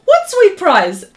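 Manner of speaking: What sweet prize asked in slow surprise; surprised. Real, not acted. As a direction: genuinely caught off guard. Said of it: "I didn't see the memo".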